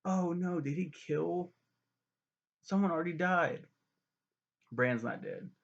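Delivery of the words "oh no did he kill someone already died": higher, louder mock panic; mock alarm. Watching Bran fall, hammed-up high alarm. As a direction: gasp it like a worried viewer. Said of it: "And it's like".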